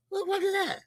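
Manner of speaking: shocked. Retold or imitated. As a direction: act out seeing something shocking. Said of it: "I'm like".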